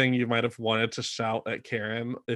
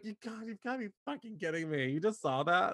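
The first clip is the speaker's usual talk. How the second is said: disgusted disbelief; 7 semitones higher, 9 dB quieter than usual. Retold or imitated. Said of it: "her to be like".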